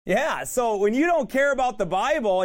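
high, driving sermon voice; full-force preaching. Real, not acted. Preacher warning those who disregard God's word, full-force preaching. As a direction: hammer each phrase to the congregation.

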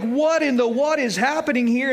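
mildly hammed-up bewilderment, slightly high; acted freak-out. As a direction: imitate disciples starting to panic. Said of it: "they start freaking out".

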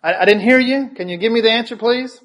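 high, sharp, demanding professor voice; a professor pressing a mumbling student, voiced up high; indignant professor. Professor demanding a student repeat his answer, high and indignant. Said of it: "And she said".

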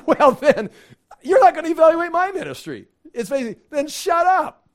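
loud and high, laughing as he turns it back on them; loud, high, laughing comeback; laughing retort. Acted. Jesus mocking the priests' dodge.

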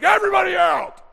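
high, loud, fast shout; sudden shout. Retold or imitated. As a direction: bark everyone out of the room. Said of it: "He was like".

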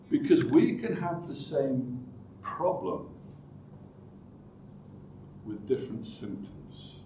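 soft, dropping, almost breathed "problem"; hushed first statement. Shown as a demonstration. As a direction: say it low as a secret. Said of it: "I want you to note that".

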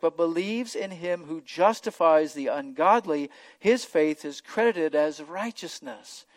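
scripture reading. Acted. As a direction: lift the verses off the page. Continues reading Romans four.

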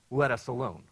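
loud, eerie demon cry; creepy demon voice. Retold or imitated. Preacher voicing the demon's creepy shout. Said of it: "whatever the creepiest voice that you can imagine, probably plenty loud".

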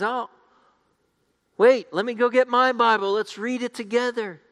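high, lightly put-on Scandinavian accent. Scandinavian man asking to join Bible reading, light Scandinavian accent. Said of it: "another Scandinavian man notices them".

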